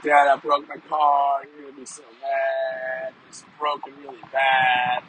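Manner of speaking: mild mock tearful plea, slow; a hint of a sobbing teen, drawn out; imitating crying daughter. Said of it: "and she's crying".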